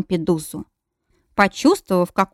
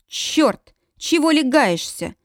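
a hint of an irritated man, higher; annoyed man; 7 semitones higher, slower than usual. A narrator's reading. Man kicked in bed complains irritably. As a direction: snap at being kicked. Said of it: "услышала я знакомый голос".

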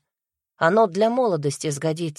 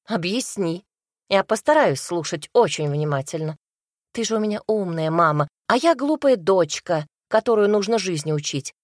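mocking. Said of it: "проговорила немного насмешливо".

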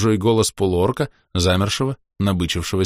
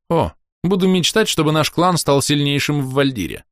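excited; 8 semitones higher than usual. Acted. Рос воодушевлён.

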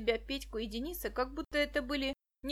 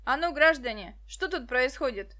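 stern; 6 dB louder than usual. Acted. Policeman arrives.

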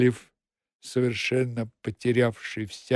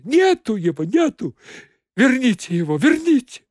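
climbing higher and louder into hysteria; hysterical cry; 10 semitones higher, 5 dB louder than usual. Acted. Secretary begging the accountant to bring him back, hysterical. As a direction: wring your hands and wail higher each time. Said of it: "вскричала".

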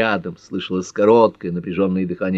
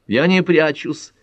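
angry retort, much higher and slow; 9 semitones higher, 4 dB louder, slower than usual. A narrator's reading. Pat snapping back at Carter, angry. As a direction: snap back indignant. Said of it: "сердито откликнулась Пэт".

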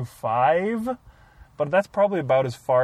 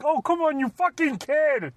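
exasperated Henson; 11 semitones higher than usual. Retold or imitated. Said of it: "It's where he's like".

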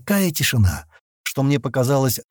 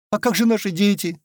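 higher-pitched, understated sob in the question; sobbing girl; 9 semitones higher than usual. A narrator's reading. Young woman asking about the children, lightly sobbing. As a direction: plead with a touch of tears. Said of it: "всхлипнула девушка".

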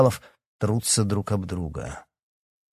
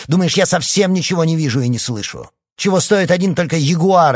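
high, loud indignant listing; heated accusation; 6 semitones higher, 6 dB louder than usual. A narrator's reading. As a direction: hurl each charge at him. Son keeps accusing his father.

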